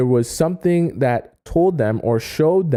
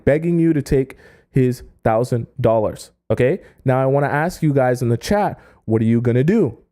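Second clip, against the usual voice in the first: ordinary talk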